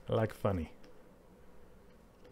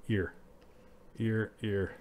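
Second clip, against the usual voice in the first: Sean Connery; 4 dB quieter, slower than usual. Pretend. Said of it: "That's my default voice, Sean Connery's voice".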